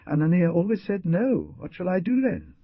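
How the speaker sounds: a hint of a woman crying as she begs; sobbed. A narrator's reading. Mother on the ground begging, lightly voiced sobbing. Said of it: "she sobbed".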